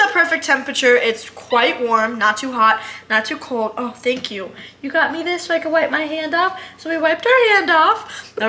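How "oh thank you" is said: normal talking voice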